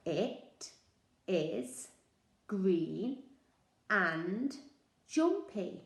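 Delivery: each word said separately; words said one by one; counting words. Shown as a demonstration. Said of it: "count the words".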